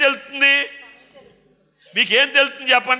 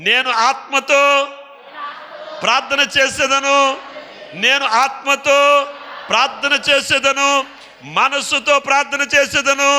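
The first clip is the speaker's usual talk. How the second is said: shouted preaching; 2 semitones higher than usual. Acted. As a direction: rouse the congregation at full voice. Chant with congregation.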